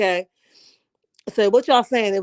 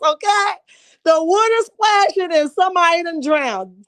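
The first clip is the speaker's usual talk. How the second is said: crying with laughter; 5 semitones higher than usual. Real, not acted. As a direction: squeal it out while laughing hard. Crying laughing recounting scene.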